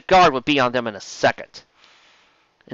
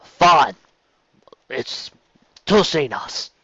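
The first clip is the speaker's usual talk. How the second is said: put-on female Cockney accent; much slower than usual. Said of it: "a female Cockney accent".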